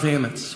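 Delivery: "hammocks" said as "hammits"; "hammocks" ending in T-S. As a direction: swap the K of "hammocks" for a T. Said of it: "Is it hammock with a T?".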